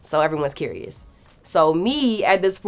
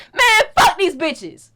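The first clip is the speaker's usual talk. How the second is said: slow, much higher mock grumble; grumbling driver; 13 semitones higher, 3 dB louder, slower than usual. Driver cursing fans as they drive off: slow, higher mock grumble. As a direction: sneer it like the fed-up driver.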